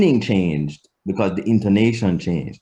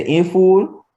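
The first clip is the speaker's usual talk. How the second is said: IN FOOL with FOOL rising sharply high; question intonation; 8 semitones higher, 3 dB louder than usual. Shown as a demonstration. Teacher showing how tune asks "is he foolish", rising question intonation. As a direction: ask IN FOOL as a yes-or-no question, pitch climbing. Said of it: "it means is he".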